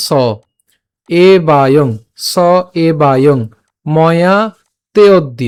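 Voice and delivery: "স এবায়ং ময়া তেঅদ্য" sounded out piece by piece; slow teacher's demonstration of "তেঅদ্য"; careful pronunciation demo. Shown as a demonstration. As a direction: model "এবায়ং" with its long vowel held, pausing after each word. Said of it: "উচ্চারণ কেমন হচ্ছে".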